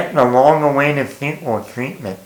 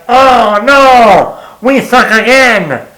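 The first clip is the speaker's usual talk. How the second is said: imagined Rob Schneider heckle; 6 semitones higher, 4 dB louder, much slower than usual. Pretend. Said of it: "be like".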